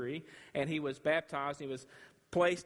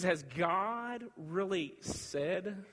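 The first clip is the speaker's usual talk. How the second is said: slow, drawn-out sly question; sly serpent; much slower than usual. Acted. Serpent to Eve, slow and sly. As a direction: tempt her into doubt, slowly. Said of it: "He says".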